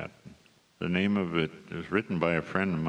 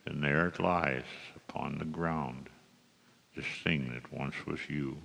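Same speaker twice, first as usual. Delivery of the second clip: cowboy poetry. Acted. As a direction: deliver each rhyme with a storyteller's pause. Recites the requested cowboy poem.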